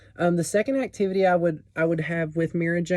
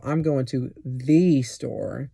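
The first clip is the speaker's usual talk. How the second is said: slow, with "the" stressed as in the best; "I'm going to the store" leaning on "the"; much slower than usual. Shown as a demonstration. Teacher demonstrating stress to a student. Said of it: "that changes the from just meaning".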